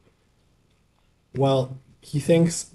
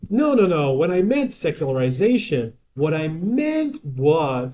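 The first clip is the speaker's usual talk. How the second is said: higher-pitched imitation of someone backpedalling, last words drawn out; mock gaslighting; 4 semitones higher than usual. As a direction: act out a slippery self-correction, pitched up. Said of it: "someone is gaslighting you".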